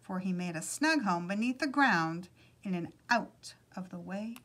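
animated read-aloud storytelling; storyteller's lilting delivery; story narration. A narrator's reading. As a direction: read a picture book aloud with measured pauses.

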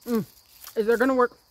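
talking through a mouthful; chewing while talking; mouth full. Real, not acted. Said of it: "I can't talk with my mouth full".

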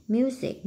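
Music with the first syllable stressed; Music, weight up front on MU. Shown as a demonstration. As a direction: hit MU in Music. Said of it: "nhấn âm một".

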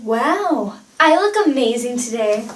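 self-admiring show-off; vain. Acted. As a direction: gush over your own looks. Admiring herself in mirror.

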